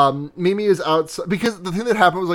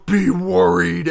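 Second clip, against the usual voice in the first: mild mock yell, drawn out; slow, restrained version of a yelled warning; slower than usual. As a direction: imitate a villain's yell without much volume. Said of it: "P G just yells".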